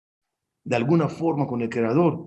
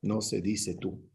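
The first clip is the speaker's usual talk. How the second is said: stern rabbi correcting; 4 semitones lower, 6 dB quieter than usual. Retold or imitated. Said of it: "Y él me decía".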